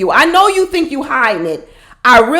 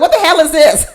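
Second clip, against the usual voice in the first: retelling own shocked laugh; laughing disbelief; 6 semitones higher than usual. Retold or imitated. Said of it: "I was like".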